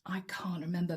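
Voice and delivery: whispering. Real, not acted. Aside while trying to remember.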